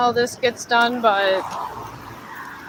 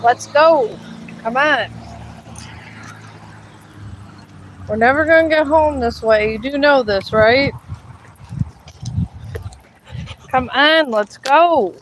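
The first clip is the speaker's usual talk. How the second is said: exasperated calling. Real, not acted. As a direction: call him on, fed up. Urging slow dog, exasperated.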